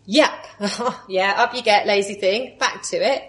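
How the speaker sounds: brusque shooing, not quite in earnest; dismissive mock Jesus. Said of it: "he doesn't say to Mary".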